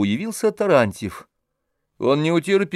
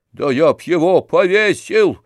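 louder, higher burst of hatred; hateful growl; 5 semitones higher, 6 dB louder than usual. A narrator's reading. Tarantyev vents his hatred of the German, loud and hateful. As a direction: spit it out with pure hatred. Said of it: "с ненавистью прокрепел Тарантьев".

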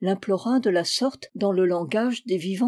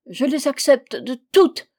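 higher, louder hasty promise; eager pleading agreement; 4 semitones higher, 5 dB louder than usual. A narrator's reading. Trapped man accepts Fanta's conditions, eagerly pleading. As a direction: agree desperately to anything.

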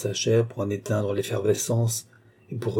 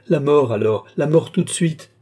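loud, desperate demand rising higher; screaming; 5 semitones higher, 5 dB louder than usual. A narrator's reading. Lorenza demands death from Balsamo, screaming. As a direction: build to a howl. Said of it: "hurla Lorenza".

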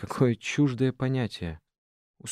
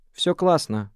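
дрогнувший голос; 6 semitones higher, 5 dB louder, slower than usual. A narrator's reading. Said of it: "сказала она дрогнувшим голосом".

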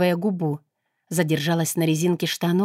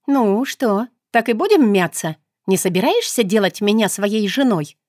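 brazen teasing; 3 semitones higher, 3 dB louder than usual. Acted. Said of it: "Протянула нагло".

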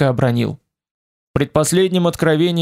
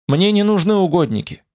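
inhuman voice; 5 semitones higher than usual. Acted. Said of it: "объяснил нечеловеческий голос".

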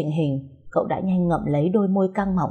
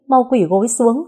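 loud, sharp order to kneel; angry command; 6 semitones higher, 6 dB louder than usual. Acted. Angry mother orders her son to kneel loudly. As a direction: scold him down onto his knees.

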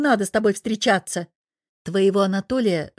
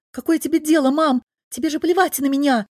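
defensive daughter snapping; 6 semitones higher, 3 dB louder than usual. Acted. Дочь огрызается на мать.

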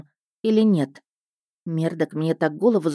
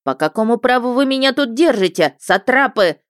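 high, loud outraged protest; piercing indignant shout; shrill indignation; 6 semitones higher, 5 dB louder than usual. Acted. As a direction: shriek the accusation. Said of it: "пронзительно возмутился".

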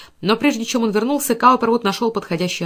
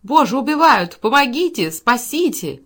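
high, loud cry for help; narrated screams, pitched up and urgent; frantic cries; 4 semitones higher, 4 dB louder, slower than usual. A narrator's reading. Rita cries for rescue behind the door, frantic cries. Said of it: "Потом истошные крики".

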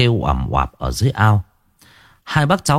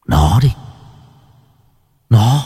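accusing shout; 2 semitones higher, 3 dB louder than usual. Acted. Giỏi points, accusing Lẫm.

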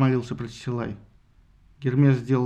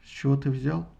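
usual speaking voice

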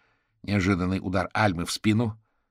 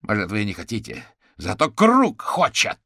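loud, higher furious cry; shouting out; 9 semitones higher, 9 dB louder than usual. A narrator's reading. Caterpillar yelling that the Circle wants witnesses dead. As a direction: hurl the accusation. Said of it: "выкрикнул Гусеница".

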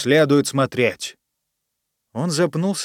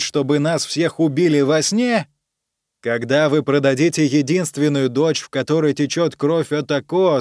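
impassioned prince; 4 semitones higher than usual. Acted. Tanaka's impassioned speech to court.

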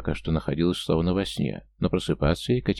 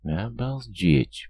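slow, stunned, drawn-out mutter; barely takes it in; amazed slow murmur from the friend; 4 semitones higher, much slower than usual. A narrator's reading. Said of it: "потрясённой историей пробормотала Надя".

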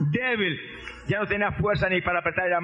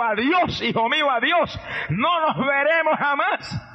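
mother pressing a final goodbye, raised and slow; emphatic farewell; 5 semitones higher, slower than usual. Acted. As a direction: lay the goodbye on him with weight.

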